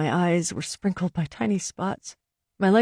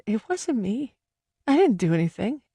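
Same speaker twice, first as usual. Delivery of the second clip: through sobs; 4 semitones higher than usual. Acted. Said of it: "everything came out in sobs".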